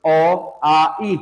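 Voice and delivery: smooth open "ओ, आ, ई", calm and steady; calm vowels. Shown as a demonstration. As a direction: let "ओ, आ, ई" flow out gently with no burst. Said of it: "इनका उच्चारण शांत होता है".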